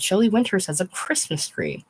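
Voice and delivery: pointed, disapproving remark; with an edge. Retold or imitated. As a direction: say it with a judgmental edge. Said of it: "She said it with an edge".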